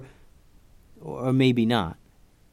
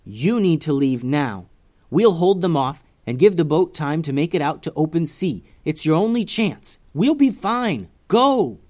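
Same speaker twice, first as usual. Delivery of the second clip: firm yell; 3 semitones higher, 3 dB louder than usual. Acted. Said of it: "yelled Stella".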